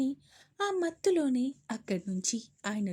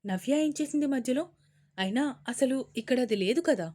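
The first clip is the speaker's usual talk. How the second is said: puzzled; 3 dB louder than usual. Acted. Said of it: "అర్థం కానట్టే అడిగారు".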